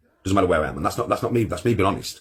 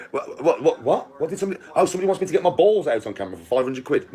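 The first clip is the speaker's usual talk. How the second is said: mock surprise; 5 semitones higher than usual. Acting out surprise at the money.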